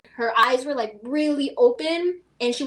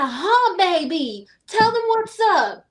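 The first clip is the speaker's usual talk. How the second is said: high, slow coaxing to the dog; mock her sweet-talking the dog, pitched up; crazy lady to her dog; 7 semitones higher, 4 dB louder, much slower than usual. Retelling lady urging her dog, high slow imitation. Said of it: "she's like".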